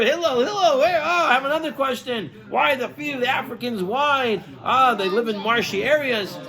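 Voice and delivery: high calling voice, pushy and bothersome; the pest shouting for Hillel yet again. Acted. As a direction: holler for him, then fire off the question. The man calls Hillel a third time.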